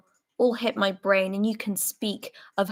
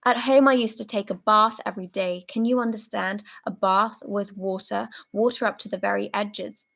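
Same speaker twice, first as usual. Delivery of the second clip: hoarse, emotional rant. Acted. Soldier raging at comrades who talk of home, hoarse fury. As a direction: spit out the anger and fear. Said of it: "hoarse and quivering with emotion".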